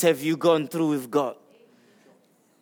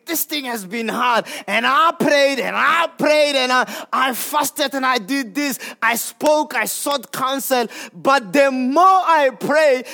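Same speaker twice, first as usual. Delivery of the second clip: frustrated believer; 4 semitones higher than usual. Acted. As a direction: pour out the complaint, building.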